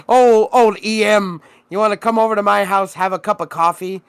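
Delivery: half-joking impression of a rich neighbor offering coffee; weird Elon voice. Friend imitates the billionaire neighbor inviting him over, mock accent. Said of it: "This is fucking weird Elon voice".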